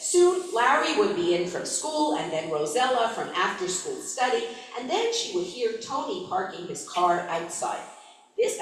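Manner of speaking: steady read-aloud narrator voice; story narration. A narrator's reading. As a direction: read the novel passage to the listeners. Reads novel aloud.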